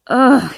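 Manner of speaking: exasperated ugh; frustrated groan. Acted. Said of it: "I groan".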